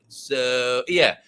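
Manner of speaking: mock Valley Girl American accent. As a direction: imitate a put-on American drawl. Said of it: "Your American accent is like".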